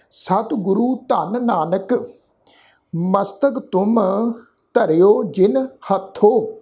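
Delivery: slow, measured reading with long pauses; slow scripture recitation. Shown as a demonstration. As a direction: recite the invocation reverently, word by word. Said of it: "Bhatt ਜੀ ਨੇ ਉਚਾਰਨ ਕੀਤਾ".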